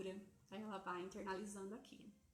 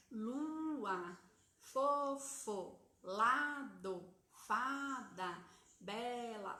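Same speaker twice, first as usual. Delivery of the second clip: put-on each word louder and carefully spelled out for a child; louder example words; 6 dB louder, much slower than usual. Shown as a demonstration. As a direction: model "Lua, fofo, lado, fada, bela" one by one, loud and clear. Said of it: "Olha quantas palavras simples".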